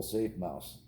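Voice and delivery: usual speaking voice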